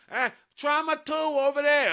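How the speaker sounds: high, loud mock Pittsburgh accent. Host imitating Dana from a TV show, mock Pittsburgh accent. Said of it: "then I heard that Dana".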